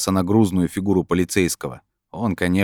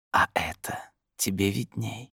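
slow eerie whisper; whispered retort; 4 semitones higher, 8 dB quieter, slower than usual. A narrator's reading. Voice in his head answers Brin, whispered slowly.

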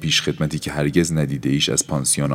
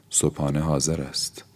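soft, weak and faint; faintest voice; 6 dB quieter than usual. Acted. Aura announcing breakfast in the faintest voice. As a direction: barely breathe it out.

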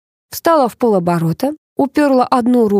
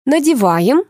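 higher, singsong beautician; 6 semitones higher, slower than usual. A narrator's reading. Beautician tells client to put it on, singsong. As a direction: sing out the instruction. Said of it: "пропела Алиса".

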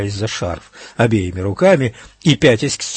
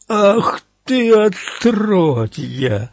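yell of pain; 9 semitones higher, much slower than usual. A narrator's reading. Stabbed in the arm, the man yells at his attacker in pain. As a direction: howl it out as the knife goes in. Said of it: "завопил Брэндон от боли и удивления".

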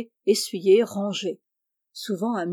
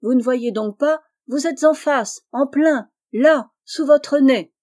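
higher and louder, building to the end; exasperated insistence; 5 semitones higher, 6 dB louder than usual. Acted. Jeannot showing the Englishman his hotel, exasperated insistence. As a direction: insist as if it's blindingly obvious.

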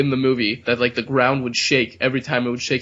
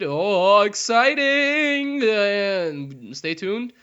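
mock excitement; 7 semitones higher, much slower than usual. Mock hype at the outro.

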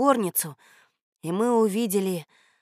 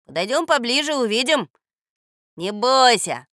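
lively, raised, encouraging call; 4 semitones higher, 7 dB louder than usual. A narrator's reading. Boy urging his nervous friend closer, encouraging. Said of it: "подбодрил его я".

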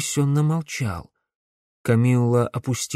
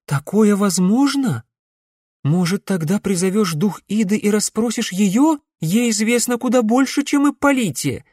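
excited; 10 semitones higher, 4 dB louder than usual. A narrator's reading. Eager hopeful questions.

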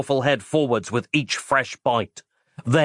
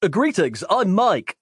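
higher, bright-eyed hero greeting; eager Mike; 8 semitones higher than usual. Acted. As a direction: hold out a hand and introduce yourself cheerfully.

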